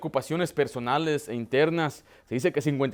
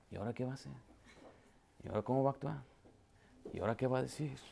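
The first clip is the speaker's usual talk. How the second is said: prying onlookers; 3 semitones lower, 12 dB quieter, much faster than usual. Retold or imitated. Voicing nosy congregation watching pastor.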